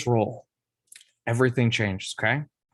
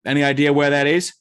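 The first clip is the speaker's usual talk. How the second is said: put-on Boston accent; 2 semitones higher than usual. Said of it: "Nick talks in a thick Boston accent".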